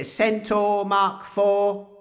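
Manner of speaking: very slow, stiff robot voice. Pretend. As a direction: announce it like a machine. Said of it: "your robot voice could do with some work".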